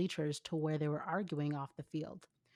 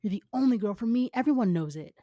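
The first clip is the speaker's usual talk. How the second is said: put-on pleading boyfriend; 3 semitones higher, 7 dB louder than usual.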